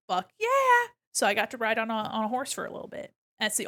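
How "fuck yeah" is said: high laughing whoop of joy; hearing mom say yes, a laughing cheer. Retold or imitated.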